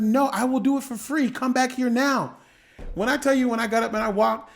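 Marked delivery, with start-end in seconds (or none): 0.0-2.4 voicing the doctor. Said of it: "I said".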